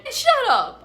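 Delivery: high, loud angry snap; angry shout. Acted. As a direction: snap at her to shut up. Kidnapper snaps at hostage.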